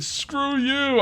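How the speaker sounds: put-on high-pitched yelled movie quote, no accent; mock action-hero cry in own accent; Arnold Schwarzenegger. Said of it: "I'm not gonna do the accent".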